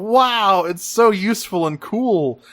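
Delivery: hammed-up toy-advert enthusiasm; mock awed kids. Kids admiring the toy base, mock awe. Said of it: "all the kids going".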